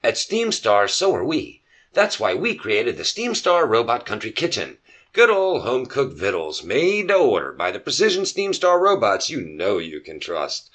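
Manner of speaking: slick commercial announcer; ad read. Acted. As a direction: sell the restaurant like a TV spot. Fake restaurant commercial.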